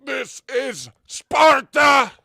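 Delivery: booming shouted Sparta line, very slow; voice changer. Pretend. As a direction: bellow it through a voice changer. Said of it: "I gotta put the voice changer on for this".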